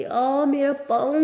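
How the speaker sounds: slow, aching moan about her foot; pained groan. Acted. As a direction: drag it out like your foot throbs. Tired Lily, foot hurting.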